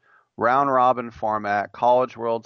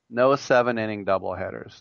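ordinary talk

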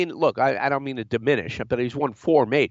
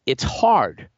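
talking through a held sneeze; fighting off a sneeze; holding back a sneeze; slower than usual. Real, not acted. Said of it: "I'm gonna try not to sneeze here".

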